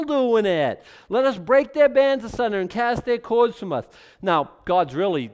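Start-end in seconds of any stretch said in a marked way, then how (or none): 1.1-3.8 higher, louder scornful reading; defiant quote. Acted. Preacher voicing the nations breaking God's bands, louder. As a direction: throw the verse out like the rebels mean it. Repeating the rebels' verse.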